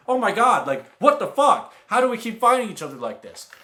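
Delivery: high, loud squeal of disbelief; excited disbelief. Retold or imitated. Friend bumping into him again, squealing in disbelief. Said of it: "And she was like".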